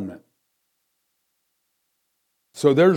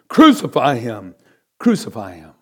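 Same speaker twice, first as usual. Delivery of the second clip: crying out; 7 dB louder than usual. Acted. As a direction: demand it like an angry crowd. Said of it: "they cried out".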